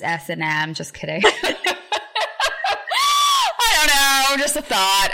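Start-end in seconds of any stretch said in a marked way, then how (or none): 1.3-3.6 high, loud burst of laughter; shrieking laugh at your own joke; loud cackle. Real, not acted. Podcast host cracks up at own S and M joke, loud cackle. 3.6-5.1 high, loud, tailing out of laughter; laughing it off. Real, not acted. Host brushes off own naughty joke, laughing loudly.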